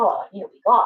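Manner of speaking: put-on quiet muttering under the breath. Retelling own past complaint about needing time off: imitating muttering under breath. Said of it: "just under my breath".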